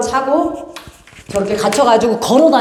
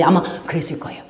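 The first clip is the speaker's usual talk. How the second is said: whisper; 8 semitones lower, 6 dB quieter, faster than usual. Real, not acted. Whispered aside.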